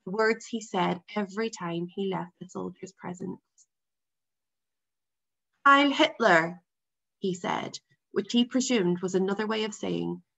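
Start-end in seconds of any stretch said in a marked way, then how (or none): 5.6-6.6 imitating Father. A narrator's reading. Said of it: "in a deep and clear a voice as possible, as much like Father's".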